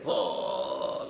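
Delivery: low, drawn-out mock wail; imitated crying wail. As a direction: imitate a man's low moan of weeping. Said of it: "shedding tears".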